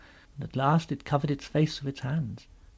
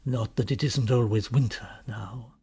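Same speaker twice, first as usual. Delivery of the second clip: gloomy faun, lower at the start; a touch of gloom in the voice; 4 semitones lower than usual. Acted. Faun adding a remark to his tale, gloomily. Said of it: "he added gloomily".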